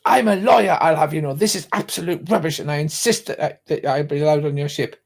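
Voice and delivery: indignant lady. Acted. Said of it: "she goes".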